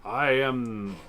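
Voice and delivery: high, stiff toy robot voice. Retold or imitated. A lightly voiced toy robot announcing itself. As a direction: sound like a wind-up eighties toy robot. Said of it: "he would go".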